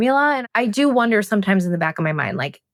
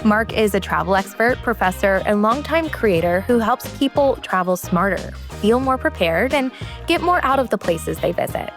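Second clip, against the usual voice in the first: measured, scripted host introduction over music; podcast intro read. Acted. Host introducing today's travel guest to listeners, scripted intro read. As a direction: read it as a polished show intro.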